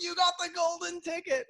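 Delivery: high, laughing congratulation; laughing cheer. Retold or imitated. Collectors in line congratulating the lucky sixth guy, laughing. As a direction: tease him happily as he joins.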